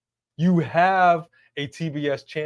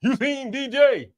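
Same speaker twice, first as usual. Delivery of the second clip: put-on slow, high Boston accent drawl; 10 semitones higher than usual. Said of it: "Did she have a Boston accent".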